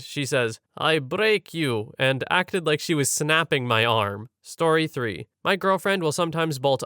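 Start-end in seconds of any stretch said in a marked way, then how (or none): 0.8-1.9 put-on slow, drawn-out Russian accent; thick Russian accent. Sleeping girlfriend threatens partner's arm, thick Russian accent. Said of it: "with a thick Russian accent".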